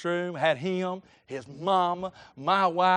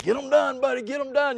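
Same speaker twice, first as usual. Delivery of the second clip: higher, urging him on; retold pep talk; 5 semitones higher than usual. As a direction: spur a kid on in passing. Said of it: "I was encouraging him every morning".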